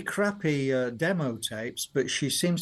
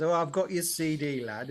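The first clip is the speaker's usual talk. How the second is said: lightly put-on Yorkshire father; touch of broad Yorkshire, imitating dad; Yorkshire accent. Son quoting his father's reply about the CD, mock Yorkshire accent. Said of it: "he speaks in a very s-, Yorkshire accent".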